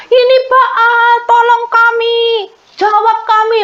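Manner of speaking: hammed-up desperate crowd yelling; frantic shouting plea. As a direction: scream up to Baal for help. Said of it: "Mereka berteriak lagi".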